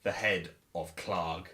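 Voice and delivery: slow, measured proclamation, lightly voiced; understated grand announcement, drawn out; booming proclamation. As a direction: announce it ceremoniously, with long pauses. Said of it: "to make my voice loud again".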